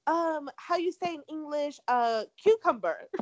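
mock Spanish accent, halting over the word; imitating her fake Spanish accent. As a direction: play a fake Spaniard searching for the English word. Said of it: "and this is me imitating her".

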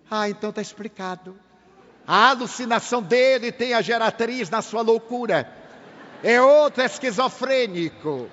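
psiquiatra zombando, mais alto; zombaria. Retold or imitated. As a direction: debocha do médium espírita. (psiquiatra materialista debochando do médium)

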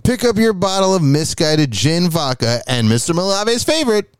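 upbeat sponsor read; chipper 1950s ad. Acted. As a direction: sell it like an old radio ad.

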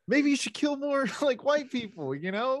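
mock suggestion. Retelling a scene character's question.

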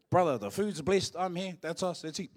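calling out. Retold or imitated. Announcing the food is blessed.

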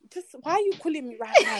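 fast, mildly exasperated retort; retold anger. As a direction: reenact being annoyed at a caller. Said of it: "You know when you're just angry".

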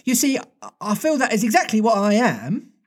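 put-on high little girl voice; a lightly voiced girl, pleased; Wendy's voice. Wendy tells the boys she is motherly, high voice. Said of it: "Wendy said".

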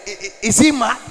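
shocked inner thought. Retold or imitated.

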